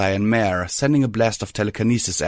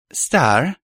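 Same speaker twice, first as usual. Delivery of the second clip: cautious; 6 semitones higher, 3 dB louder than usual. A narrator's reading. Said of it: "she said cautiously".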